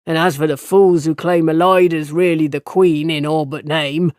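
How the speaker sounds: a mild spat-out jab at the fools. Acted. Old farmer spitting his scorn about the queen's adviser, mild. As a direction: spit the words with contempt. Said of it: "he spat into the night".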